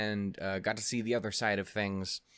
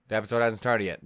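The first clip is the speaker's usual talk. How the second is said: louder, firm, scolding like an owner; 5 dB louder, faster than usual. Pretend. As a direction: raise the voice and lay down the rule. Louder second plea to Ren.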